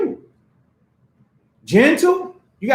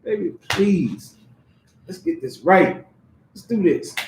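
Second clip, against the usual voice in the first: mild pleading; 5 semitones lower than usual. Retold or imitated. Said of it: "Don't be too proud to beg".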